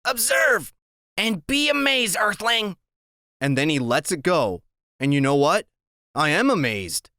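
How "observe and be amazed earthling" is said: high mock-grand proclamation; grand Freak announcement. A narrator's reading. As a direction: announce it like a showman to an alien. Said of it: "and he goes".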